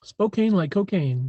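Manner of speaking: slow, rhyming Spokane like cocaine; catchy motto. Shown as a demonstration. Streamer signing off with his motto, slow and rhyming. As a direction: land the rhyme of Spokane and cocaine. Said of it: "that's my motto".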